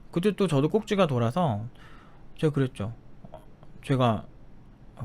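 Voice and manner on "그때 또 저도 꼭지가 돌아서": ordinary talk, nothing marked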